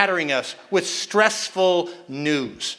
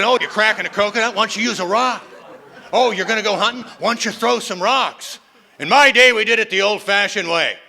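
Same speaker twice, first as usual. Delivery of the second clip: put-on grumpy old caveman; 3 dB louder than usual. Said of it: "And they always said".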